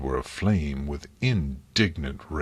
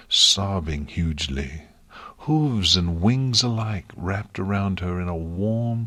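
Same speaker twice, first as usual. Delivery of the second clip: usual speaking voice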